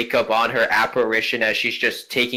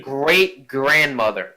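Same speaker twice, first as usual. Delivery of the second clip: grand noble lady; slower than usual. Acted. Ghost lists greats.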